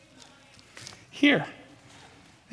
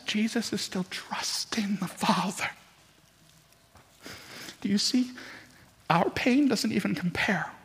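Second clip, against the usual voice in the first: softly, almost whispering to the church; hushed; 2 semitones higher, 5 dB quieter than usual. Real, not acted. Preacher hushing the congregation, soft near whisper. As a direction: draw them in with a near whisper.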